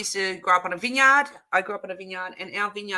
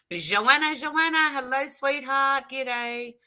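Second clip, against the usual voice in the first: sweet greeting; 6 semitones higher, slower than usual. Real, not acted. Greets viewer in Aussie voice.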